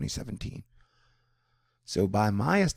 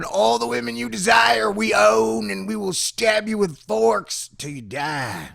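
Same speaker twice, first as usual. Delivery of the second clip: loud, high mocking pirate threat; space pirates; 10 semitones higher, 6 dB louder, slower than usual. Space pirates shouting threats in his face, loud mock menace. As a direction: bellow it like a gloating space pirate. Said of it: "I got space pirates up in my face going".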